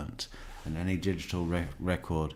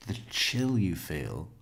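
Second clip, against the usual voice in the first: incredulous. Real, not acted. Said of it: "Like a spooky chill?".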